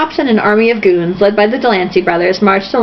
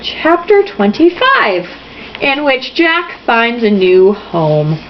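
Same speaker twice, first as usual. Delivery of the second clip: chapter announcement; much slower than usual. A narrator's reading.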